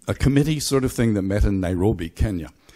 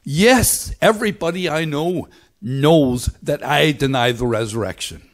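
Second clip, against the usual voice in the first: loud, higher imitated Belfast accent; Pete Rollins; 6 semitones higher, 4 dB louder than usual. Answering the resurrection question, imitated Belfast accent. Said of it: "there's the accent".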